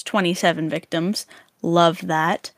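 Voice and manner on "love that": dry fake approval; sarcastic. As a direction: say it with a deadpan sneer. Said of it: "I'm being sarcastic".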